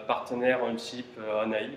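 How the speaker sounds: hesitant English with a French accent; poor English accent. Real, not acted. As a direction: stumble through the English name in a French accent. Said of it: "mon accent anglais, il est pourri".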